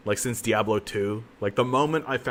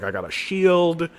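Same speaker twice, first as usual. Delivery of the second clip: mock proud; 3 semitones higher, slower than usual. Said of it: "This lady's just like".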